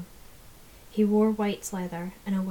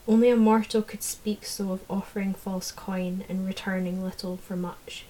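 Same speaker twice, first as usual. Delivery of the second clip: contemptuous. Acted. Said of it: "contempt dripping".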